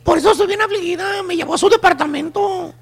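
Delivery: lightly put-on tearful whine; mock crying. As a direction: confess to a girlfriend with a touch of fake sobbing. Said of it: "la amiga llorando le dice".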